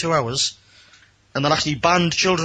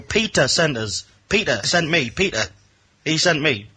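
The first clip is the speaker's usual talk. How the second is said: trying to be understood. Retold or imitated. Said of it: "they couldn't understand a word".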